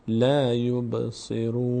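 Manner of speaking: slow recitation, closing یبصرون on n with no vowel after it; vowelless final nun. Shown as a demonstration. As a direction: draw out لا یبصرون and stop on a still n. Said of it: "در هنگام وقف نون حرکت پیدا نکنه".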